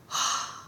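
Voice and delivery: sharp retold intake of breath; stunned gasp. Stunned reaction to being recognized.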